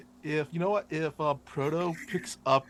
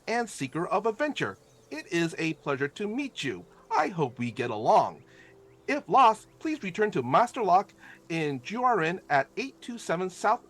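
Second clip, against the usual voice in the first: monotone reading voice; 5 semitones higher than usual. Acted. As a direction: read it out like a recited script. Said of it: "kinda in a monotone voice".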